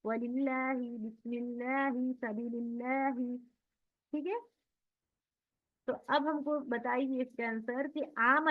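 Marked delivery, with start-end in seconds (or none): 0.0-3.4 "बिस्मिल्लाही" with a thin lam, softly and slowly; tajweed demo, thin lam after kasra; light lam. Shown as a demonstration. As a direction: read "सबीलिल्लाही" with a fine, light lam. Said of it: "बारीक".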